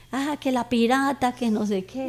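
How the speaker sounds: mock a child calling out, lightly; children's taunt. Children taunting her in the restaurant, mild imitated jeering. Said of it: "Me gritaba".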